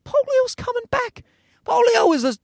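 high, alarmed outburst. Real, not acted. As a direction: sound the alarm. Alarm about polio returning.

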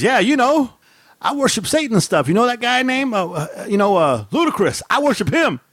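high-pitched imitation of a goofy kid; light, high, naive kid imitation. Dad retelling his kid's silly claim in the car, goofy imitation.

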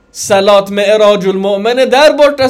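där borta hit hard and loud; stress on där. Real, not acted. Preacher stresses the location.

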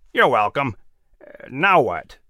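eagle inquiring. Acted. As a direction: ask it lazily as the big eagle. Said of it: "inquired Cato".

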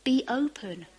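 high, loud urging; Jesus urging the crowd around him, loud and high; urgent call. Acted. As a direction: call out to wake them up.

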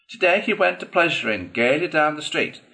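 high-pitched squeaky weasel; weasel's high squeak. A narrator's reading. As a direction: recite a ditty in a squeaky voice. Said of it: "began in a high, squeaky voice".

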